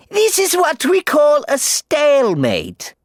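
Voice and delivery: Cruella. Acted. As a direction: purr it slowly, in control. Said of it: "said Cruella".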